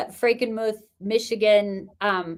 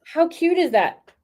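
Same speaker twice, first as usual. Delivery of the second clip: excited; 9 semitones higher, slower than usual. Real, not acted. Delighted by the shop name.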